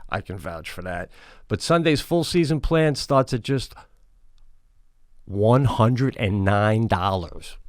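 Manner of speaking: upbeat sales pitch, punching the offer; podcast ad read. Acted. Host pitching lawn care plans to listeners, ad read. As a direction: read the sponsor copy with punchy emphasis. Reads a sponsor ad.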